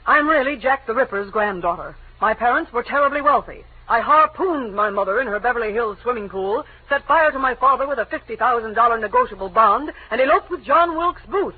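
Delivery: sarcastic, showing off the absurd story; sarcastic tall tale. Acted. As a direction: spin the lie with bitter sarcasm. Mocking invented confession to detective.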